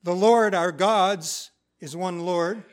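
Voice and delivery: slow reflective recitation; slow deliberate reading. Shown as a demonstration. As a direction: read slowly, weighing each word. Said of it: "I think it's got all this richness tied up in it".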